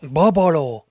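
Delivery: loud "Bubolo" in an Asian accent. Shown as a demonstration. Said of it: "If you do an Asian accent again".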